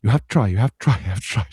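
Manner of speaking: mock nagging on repeat; rapid repeated urging, lightly acted; insistent mother. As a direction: imitate a mum urging her child over and over. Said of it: "she keeps going".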